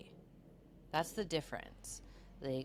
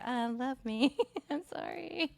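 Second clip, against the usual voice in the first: mock pleading apology; 11 semitones higher, 4 dB louder than usual. Makeup plea after fight.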